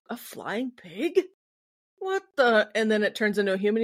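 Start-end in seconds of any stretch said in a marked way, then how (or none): 0.1-2.7 mock Polidori. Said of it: "he's like".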